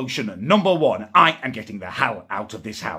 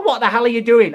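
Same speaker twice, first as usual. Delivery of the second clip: higher, louder mock yelling through the door; exasperated demand; 10 semitones higher, 5 dB louder than usual. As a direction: act out an indignant challenge. Acting out row at bathroom door.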